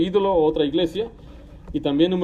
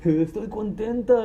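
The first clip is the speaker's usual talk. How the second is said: slow, wailing fake tears of joy; hammed-up weepy woman; mock crying; 3 semitones higher, slower than usual. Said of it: "estoy llorando". (llanto fingido, lento y exagerado)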